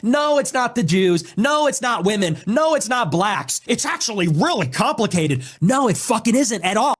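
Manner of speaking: high, slow, sneering mockery of their excuses; mocking imitation. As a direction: drag each no out like a smug parody. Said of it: "They're always coming up with".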